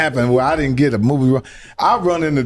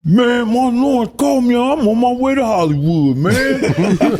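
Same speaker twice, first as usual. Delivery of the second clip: raised-pitch excited impression; hammed-up excitement; excited bragging; 7 semitones higher than usual. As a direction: crow the big news, voice up high. Acts out Tracy Morgan bragging in car.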